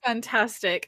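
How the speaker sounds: ordinary talk, nothing marked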